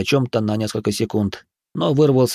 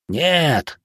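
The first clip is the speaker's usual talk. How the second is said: usual speaking voice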